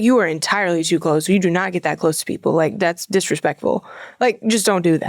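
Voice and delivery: a strict Russian lady scolding a fan; stern Russian accent. Retold or imitated. Haunt actor in Russian character scolding a fan, stern Russian accent. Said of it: "I said it in character, like, in the Russian".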